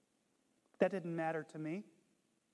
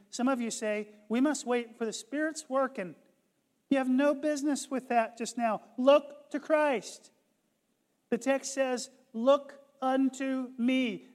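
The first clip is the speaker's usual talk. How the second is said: building preacher's cry; 5 semitones higher, 6 dB louder than usual. Retold or imitated. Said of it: "the preacher continued".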